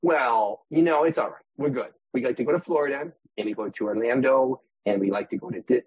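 lightly put-on Michigan accent, easygoing; a relaxed Midwestern Michigan accent, a touch hammed; cheerful mock Michigander accent. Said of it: "the best Wisconsin, uh, accent".

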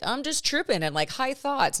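hammed-up tripping voice, tongue in cheek; mock stoner voice. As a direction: lampoon the idea she's just high. Mocking a stoner take.

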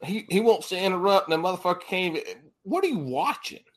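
high, excited ribbing; excited teasing. Real, not acted. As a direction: tease him, voice up high. Teasing a muted guest.

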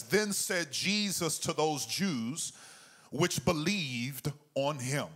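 slow, measured Bible reading; slow scripture reading. Shown as a demonstration. Pastor reading scripture slowly to the congregation, measured. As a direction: read each word slowly and clearly. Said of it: "we're gonna take our time reading this".

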